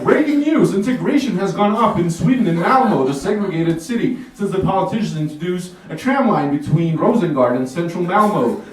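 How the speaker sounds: hammed-up CNN anchor read; news anchor. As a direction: announce it like a TV anchor. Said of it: "C N N is like".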